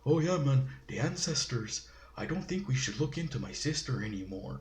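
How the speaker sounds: half-hearted imitation of a stilted Native accent; bad native accent. Mocking the actor's stilted Native accent, lightly imitated. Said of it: "really bad native accent".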